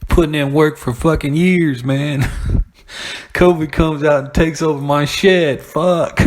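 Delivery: hammed-up griping like an upstaged old-timer; cancer grumbling. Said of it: "All the other diseases are like, man, c-, cancer, like".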